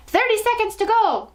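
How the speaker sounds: very high countdown cry; witch's cry. A narrator's reading. Witch gripping Bruno by the arm, crying out. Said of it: "cried the Grand High Witch".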